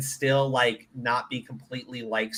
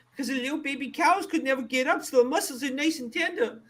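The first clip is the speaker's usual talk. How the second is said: mock tender; 12 semitones higher than usual. Joking about veal tenderness.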